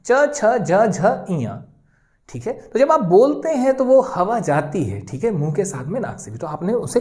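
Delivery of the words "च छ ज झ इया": च, छ, ज, झ, इया spoken letter by letter, nasal इया at the end; teacher sounding out the letters; sound demo. Shown as a demonstration. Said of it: "आप उच्चारण करके देखें".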